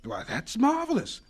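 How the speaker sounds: slow, hushed astonishment; amazed. Acted. Carver to Doctor Washington about the gift, slow amazed wonder.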